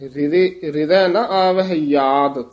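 careful model reading ending on ਯਾਦ with a y; corrected y-sound. Shown as a demonstration. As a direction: say ਯਾਦ with initial y, not j. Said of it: "ਯਾਦ ਯਈਆ ਉਚਾਰਨ ਕਰਨਾ ਹੈ".

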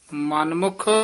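ਮਨਮੁਖ rising into a brief halt; yamak halt on ਮਨਮੁਖ. Shown as a demonstration. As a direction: lift the end of ਮਨਮੁਖ and hold off. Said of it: "ਇੱਥੇ ਯਮਕ ਲਾ ਕੇ ਉਚਾਰਨ ਕਰਨਾ ਹੈ".

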